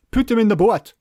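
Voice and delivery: put-on high, loud, odd Shetland accent; weird Shetland accent. Imitating Sandy from the TV show, weird Shetland accent. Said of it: "he speaks really weirdly".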